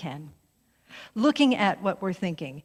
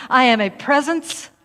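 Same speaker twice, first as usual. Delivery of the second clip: bold, lifted on I; leading affirmation; 3 semitones higher, 6 dB louder than usual. Shown as a demonstration. Minister calling affirmation to congregation, strong and lifted. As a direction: proclaim it for the room. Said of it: "As you repeat after me".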